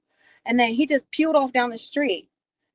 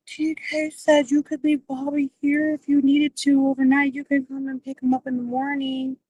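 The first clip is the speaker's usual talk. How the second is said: voicing Armani; 3 semitones higher than usual. Quoting Armani relaying a message.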